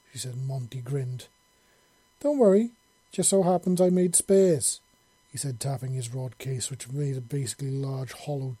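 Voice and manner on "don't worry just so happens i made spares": put-on amused, higher old man voice; lightly voiced sly old man; grinning old man. Monty grins, reassures.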